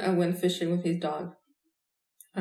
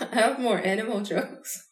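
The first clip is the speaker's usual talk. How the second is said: laughs through the words, slower; chuckling while offering more jokes; laughing; 4 semitones higher than usual. Real, not acted. Joking about more jokes.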